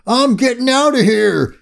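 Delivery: high panicky yell; yelled surrender. A narrator's reading. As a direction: yell it out as you bail. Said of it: "gave up and yelled".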